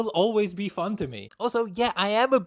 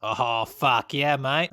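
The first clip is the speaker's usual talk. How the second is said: slow, low mock Australian accent; 4 semitones lower, much slower than usual. Shown as a demonstration. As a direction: drawl it like a joking Aussie. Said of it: "I can do Australian".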